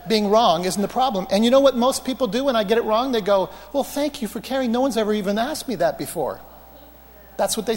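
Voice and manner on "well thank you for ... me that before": imitated gratitude. Acts out grateful people's reply.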